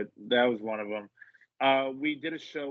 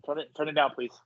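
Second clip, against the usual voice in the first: calling out; 4 semitones higher, 7 dB louder, faster than usual. Real, not acted. Calls out to son mid-show.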